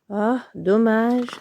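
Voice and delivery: slow disappointed sigh. Acted. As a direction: let it fall, disappointed. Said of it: "soupire Ourson". (soupir déçu et lent)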